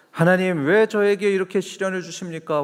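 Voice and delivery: 원망하듯 높은 목소리로 하소연; complaining prayer. Retold or imitated. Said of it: "원망하고 불편하면". (하나님께 시련을 원망하며 높게 하소연하는 기도)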